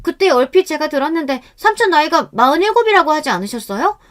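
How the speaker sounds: high-pitched innocent questioning; feigned nonchalance. A narrator's reading. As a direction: play it casual and innocent. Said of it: "태연한 목소리를 다시금 내었습니다".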